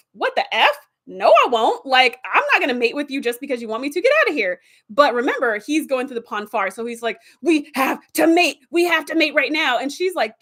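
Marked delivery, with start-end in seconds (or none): 0.1-4.6 indignant. Retold or imitated. B'Elanna rejecting the Vulcan. 7.4-9.8 urgent demand. Retold or imitated. Vulcan in Pon farr demanding.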